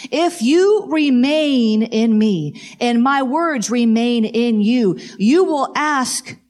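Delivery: slow, solemn reading of Jesus' words; lightly voiced Jesus, slow and deliberate; voicing Jesus. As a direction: give each word weight, like scripture spoken aloud. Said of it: "this is Jesus".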